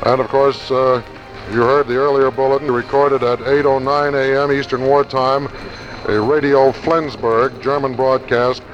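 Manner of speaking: vintage radio bulletin read; crackly 1940s radio newscast. Real, not acted. Archival wartime radio news bulletin.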